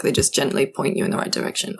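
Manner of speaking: soft, breathy whisper. Acted. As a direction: whisper it gently like a helper. Describes a gentle helper.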